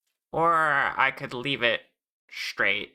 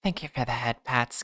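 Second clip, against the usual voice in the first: ASMR voice. Pretend. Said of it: "A S M R voice".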